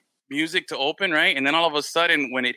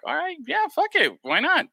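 mock excited yes; 12 semitones higher than usual. Retelling own excited reply.

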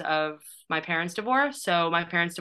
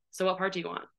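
casual, understated toss-off; nonchalant; 6 dB quieter, faster than usual. Retold or imitated. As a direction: imitate an offhand, unbothered director. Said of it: "like, so nonchalantly".

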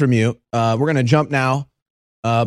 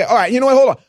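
exasperated quote; 10 semitones higher, faster than usual. Retold or imitated. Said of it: "You say".

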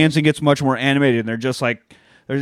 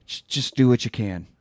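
lame pep talk. Retold or imitated. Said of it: "that's his whole pep talk".

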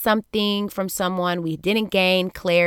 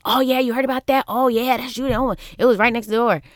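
higher-pitched, breezy brush-off; quick, unbothered retold reply; laughing it off; 6 semitones higher than usual. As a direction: imitate someone casually shrugging off the scare. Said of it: "he's, like, laughing it off".

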